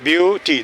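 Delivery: ब्यूटी drawn out as two beats, ब्यू, टी; broken into syllables. Shown as a demonstration. Teacher counting the word's stops for students, syllable by syllable. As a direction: pause between ब्यू and टी in ब्यूटी. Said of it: "दो बार रुकते हैं".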